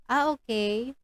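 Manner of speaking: flat, uninterested ah okay; bored reaction. Shown as a demonstration. Teacher demos a bored reply to a proud parent. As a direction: react as if you don't care. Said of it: "hindi ganon".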